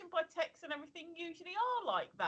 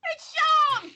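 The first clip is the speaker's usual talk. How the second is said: loud, high-pitched cry of recognition; excited shout; 12 semitones higher, 11 dB louder than usual. Real, not acted. Listener hears Alexa's new Welsh voice, excited shout.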